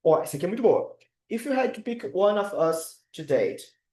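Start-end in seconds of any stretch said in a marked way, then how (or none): 1.3-3.8 "If you had to pick one of us to date" read out slowly for the chat; slow, careful teacher read of the sentence; slow dictation. Shown as a demonstration. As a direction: read slowly so students can write it down. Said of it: "Coloca aqui no chat".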